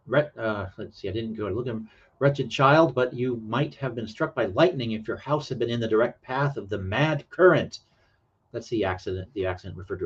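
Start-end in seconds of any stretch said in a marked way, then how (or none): 2.2-7.8 theatrical story reading with lively pitch; dramatic read-aloud. Acted. Reading an old paragraph to stream viewers, mildly dramatic. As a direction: read it out like a melodrama.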